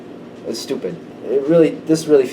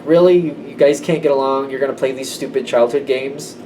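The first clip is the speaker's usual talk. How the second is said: unimpressed scolding. Retold or imitated. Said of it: "this person makes their point".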